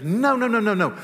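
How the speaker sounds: loud high no, no, no; emphatic no. Real, not acted. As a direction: throw the nos out hard, rising. Emphatic rejection.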